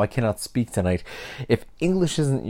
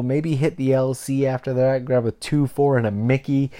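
Canadian slang demo. Shown as a demonstration. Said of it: "I could say to you".

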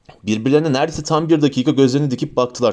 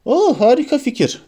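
mock enthusiasm; 11 semitones higher than usual. Harry humouring Ron.

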